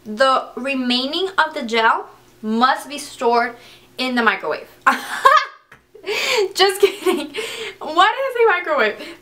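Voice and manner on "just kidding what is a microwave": high, giggly self-correction; laughing at herself. Real, not acted. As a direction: crack up at your own mistake. Laughs at her own slip.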